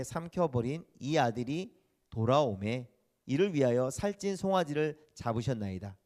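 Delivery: measured formal reading of the verse; scripture reading. Acted. Pastor reads the eldest son's reply from scripture, formal. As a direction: read it out like the pulpit Bible.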